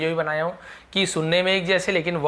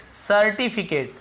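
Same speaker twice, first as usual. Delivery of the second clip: slow syllable by syllable; 4 semitones higher, much slower than usual. Shown as a demonstration. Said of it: "सर्टिफिकेट यानी प्रमाण पत्र".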